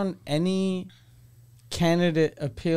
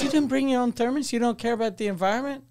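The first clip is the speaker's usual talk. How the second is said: mock scold; 6 semitones higher, faster than usual. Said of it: "she goes".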